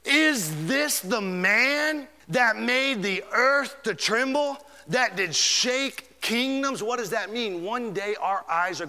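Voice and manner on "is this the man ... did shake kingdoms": slow, drawn-out scorn; slow mocking question, pitched up; scornful amazement. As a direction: let the wonder sneer at the fallen one.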